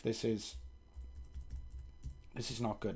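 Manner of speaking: stuffy nose before blowing it; blocked nose. Real, not acted. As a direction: speak through a blocked nose. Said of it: "Excuse me while I blow my nose".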